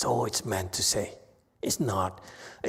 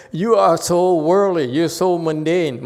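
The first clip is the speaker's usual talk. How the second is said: raised, higher scolding voice; lightly acted rebuke, louder and higher; mock scolding; 8 semitones higher, 9 dB louder than usual. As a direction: scold them in jest. Acts out Buddha scolding students.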